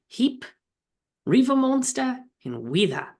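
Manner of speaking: high, loud mock Australian accent on "Riva Monster"; bad Australian accent. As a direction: try the Australian accent and half miss it. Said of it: "with an Australian accent".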